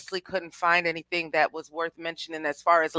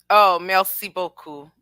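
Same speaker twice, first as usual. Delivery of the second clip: put-on a playful French accent on merci beaucoup; merci beaucoup with a rolled French flair, falling at the end; 7 dB louder than usual. Thanking the chat, showing off French, in a light French accent. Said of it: "I get to use a little bit of my French accent".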